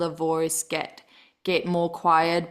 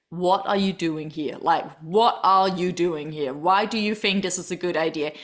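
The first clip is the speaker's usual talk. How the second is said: inner critic voice; 3 semitones lower than usual. Retold or imitated. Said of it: "that voice in your head that said".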